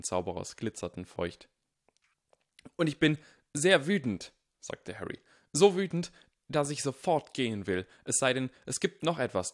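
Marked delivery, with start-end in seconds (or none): 2.8-9.5 much louder, higher mock fury, still acted; louder fake anger. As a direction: push the fake rage way up. Harry raising his fake anger.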